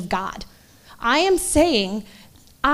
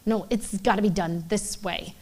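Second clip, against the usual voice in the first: stubborn; 2 semitones lower, 6 dB quieter than usual. Retold or imitated. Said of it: "digging my heels into the ground".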